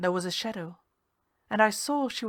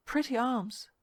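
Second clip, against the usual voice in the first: much higher, intimate murmur; higher seductive purr; higher, close-up coaxing; 5 semitones higher than usual. Acted. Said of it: "speaking close to my ear".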